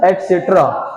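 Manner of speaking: एटसेटरा as et-setra, falling; correct pronunciation. Shown as a demonstration. Teacher confirming the answer with students, एटसेटरा as et-setra. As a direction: say एटसेटरा with a clear t before s. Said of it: "क्या पढ़ते हैं".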